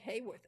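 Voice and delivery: "Hayworth" with a plain HAY at the front; mispronounced. Retold or imitated. Traveller admitting her own wrong version, mispronounced. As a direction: say "Hayworth" just as it looks, HAY-worth. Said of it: "And I'm saying".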